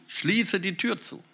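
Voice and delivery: slow, emphatic, Tür leaned on; stress on Tür. Shown as a demonstration. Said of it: "Das ist also eine wichtige Betonung". (Nachdruck auf „Tür“, langsam und höher)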